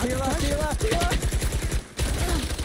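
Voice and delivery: calling out. Real, not acted. Calling out to teammate.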